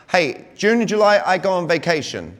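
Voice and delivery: "June and July" lifted, "vacation" settling down as a statement; telling statement. Acted. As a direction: announce "I go on vacation" as a settled fact. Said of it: "like, in a statement".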